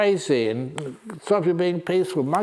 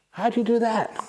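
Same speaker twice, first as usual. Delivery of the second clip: high eager monkey question; 9 semitones higher than usual. Acted. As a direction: ask like a curious little monkey. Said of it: "monkeys ask".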